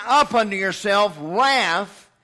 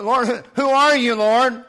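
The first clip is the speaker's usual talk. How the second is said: crying out; 2 semitones higher, 4 dB louder than usual. Acted. Paul on the Damascus road, knocked down, crying out loudly. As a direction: call out, struck down. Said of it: "he cried out".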